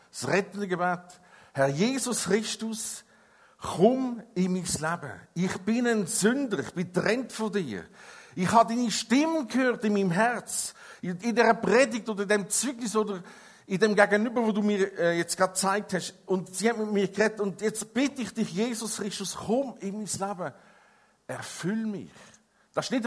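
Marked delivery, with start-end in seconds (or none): 1.5-5.2 slow, earnest spoken prayer. Shown as a demonstration. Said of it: "dass ein Mensch betet". 5.4-22.1 spoken prayer. Shown as a demonstration. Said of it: "dass ein Mensch betet".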